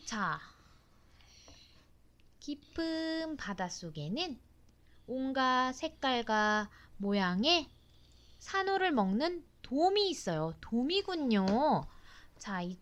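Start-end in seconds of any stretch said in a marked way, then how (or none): 2.4-10.5 put-on reading to a toddler. Mother reads book text aloud.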